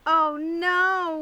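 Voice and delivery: loud, high whine of dismay; whining old man. A narrator's reading. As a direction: groan it like a worried old farmer. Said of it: "whined Petson".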